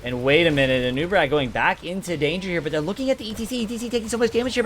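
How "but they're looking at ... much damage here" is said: hyped play-by-play. Real, not acted. Caster hyping a big fight.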